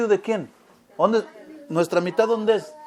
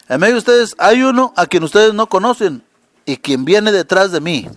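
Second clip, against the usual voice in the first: louder, pressing the words home; emphatic repeat; 7 dB louder than usual. Acted. Preacher repeating John's words to the church, louder and emphatic. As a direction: drive the quote at the congregation.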